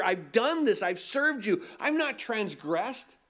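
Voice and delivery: a resentful son protesting, not fully acted; bitter older brother. Preacher voicing older brother complaining to father, mildly bitter. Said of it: "I don't think he said it with a smile".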